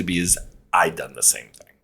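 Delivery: a sudden hushed whisper; real confessional whisper; whispered admission. Real, not acted. Admitting own past mistakes.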